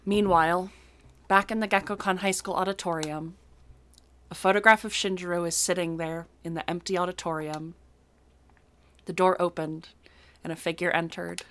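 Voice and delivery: measured storyteller's read; game narration read aloud; story narration. A narrator's reading. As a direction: narrate the scene evenly, with pauses. Reads the game's narration aloud.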